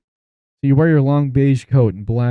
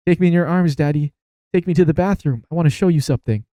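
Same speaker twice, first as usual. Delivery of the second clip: higher-pitched, lightly voiced child; dead son's voice; 5 semitones higher than usual. Risen son asking Daddy to carry him, higher voice. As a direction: ask like a little boy wanting Daddy.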